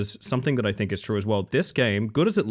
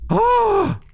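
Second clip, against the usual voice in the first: short, very high loud scream; startled shriek; 6 dB louder than usual. Real, not acted. Player jumped by the monster, high startled shriek. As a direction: scream out sharply in fright. Second jumpscare.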